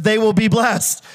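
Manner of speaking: slow, lifted delivery as the first half of a contrast; emphatic contrast. Retold or imitated. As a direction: make the point slowly, voice held up. Banks blessed, set against his people.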